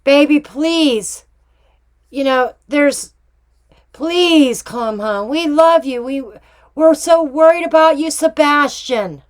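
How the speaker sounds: a mild mock plea of a loving parent, begging him home; gently acted parent calling her missing son home; pleading parent. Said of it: "Not once did they say".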